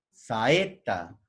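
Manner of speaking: "saeta" broken as sa-e, then ta; a and e each sounded apart in "saeta"; vowels separated. Shown as a demonstration. Teacher repeating the hiatus, "saeta" split by syllables. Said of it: "hiatos simples".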